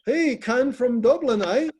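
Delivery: slow, loud mock Irish greeting; a playful stab at an Irish lilt; Irish accent. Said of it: "your Irish accent".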